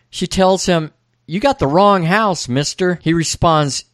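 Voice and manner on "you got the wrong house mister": higher-pitched Texas twang. Retold or imitated. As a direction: brush him off as a Texan woman. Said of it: "She asks in a Texas twang".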